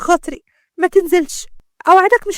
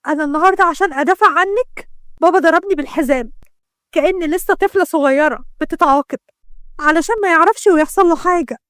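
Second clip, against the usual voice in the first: raised, aggrieved voice; hurt reproach; 3 semitones higher than usual. Acted. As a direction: pour out bitter accusations to a sister. Sister reproaches betraying sister in quarrel.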